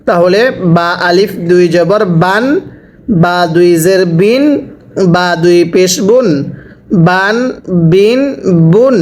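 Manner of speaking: teacher's spelling drill, বান, বিন, বুন ending in n; tanween pronunciation demo. Shown as a demonstration. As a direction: spell out বান, বিন, বুন, each closing on a clear dental n. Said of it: "তানভিনের উচ্চারণ বাংলায় শেষে দন্তন্য উচ্চারণ হয়".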